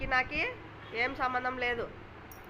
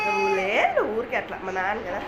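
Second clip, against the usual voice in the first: coaxing call; 7 dB louder than usual. Real, not acted. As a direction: raise the voice to stop him crying. Mother scolding crying child. (ఏడుస్తున్న బిడ్డను గట్టిగా పిలుస్తూ)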